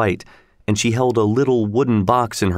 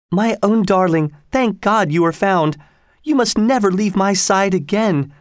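whispered; 9 semitones higher than usual. A narrator's reading. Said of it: "whispered Missus Otis".

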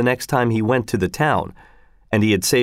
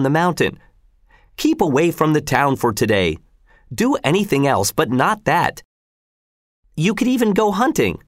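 lightly voiced worried wife, higher; a hint of a nagging housewife objecting; fretful mother; 3 semitones higher than usual. Wife pleads he stay home.

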